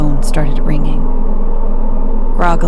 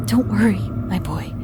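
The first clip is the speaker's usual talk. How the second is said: calm; 5 semitones higher, 7 dB quieter than usual. Acted. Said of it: "I tried to keep my voice calm".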